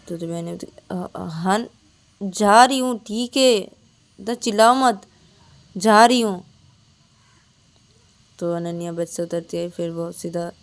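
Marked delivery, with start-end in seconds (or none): 0.9-6.4 louder, higher giving in; placating. Acted. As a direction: back off, stop shouting. Ananya gives in.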